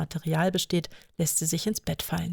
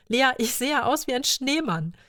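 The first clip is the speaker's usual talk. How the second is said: laughing grandma; 7 semitones higher than usual. A narrator's reading. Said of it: "vor Lachen gar nicht einkriegen".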